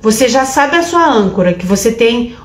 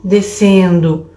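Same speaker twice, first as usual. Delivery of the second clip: slow breath labels; 3 semitones lower, much slower than usual. Shown as a demonstration. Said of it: "você pode falar subindo".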